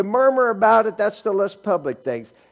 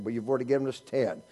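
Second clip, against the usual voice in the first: mock congregation complaint; 6 semitones lower, 7 dB quieter, faster than usual. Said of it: "You said".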